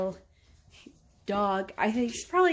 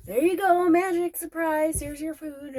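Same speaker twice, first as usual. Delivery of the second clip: pet talk; 5 semitones higher, 4 dB louder than usual. Real, not acted. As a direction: coo over the cat like a treat is a big surprise. Giving the cat her food.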